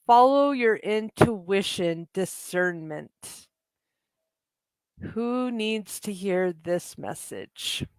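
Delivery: slow, hushed card-reading delivery. Acted. Reads an oracle card message.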